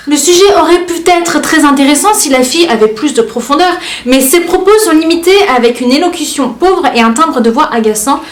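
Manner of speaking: plus haut, ton hautain de critique; lis-les comme des piques méprisantes; commentaires méprisants. Retold or imitated. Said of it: "de la manière dont moi je les lis dans ma tête". (commentaires lus avec mépris)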